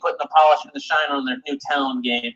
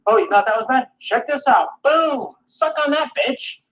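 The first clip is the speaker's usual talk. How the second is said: mock gloating; 11 semitones higher, slower than usual. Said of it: "It's always like".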